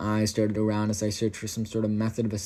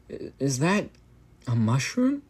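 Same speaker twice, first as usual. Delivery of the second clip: hushed high wonder; in awe; 4 semitones higher than usual. A narrator's reading. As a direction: marvel at what you see. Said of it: "I said in awe".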